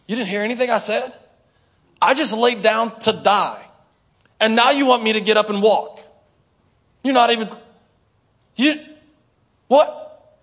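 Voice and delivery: hammed-up indignant whine; incredulous complaining. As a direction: sputter in outraged disbelief. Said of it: "And you're like".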